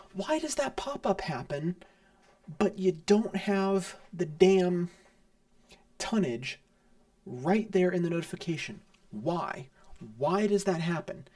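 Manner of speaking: real exasperated complaint, punching key words. Real, not acted. Player ranting about a badly designed pop-up, exasperated. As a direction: demand an answer from the game.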